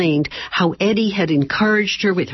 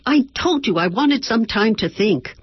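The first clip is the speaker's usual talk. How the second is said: snapped; 6 semitones higher than usual. Acted. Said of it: "she snapped".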